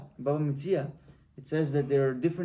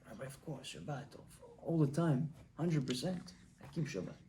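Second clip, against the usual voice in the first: meek farmer; 2 semitones lower, 10 dB quieter than usual. Acted. Farmer answers the rabbi meekly.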